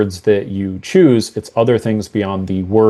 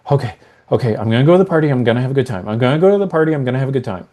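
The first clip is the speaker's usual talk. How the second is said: anxious tone; much faster than usual. Shown as a demonstration. Client repeats the phrase with anxious tonality. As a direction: talk yourself into it nervously. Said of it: "they're using anxious tonality".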